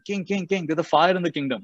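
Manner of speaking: high-pitched urgent messenger; alarmed guard. Retold or imitated. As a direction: call out to the king as a running guard. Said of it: "a guard comes running".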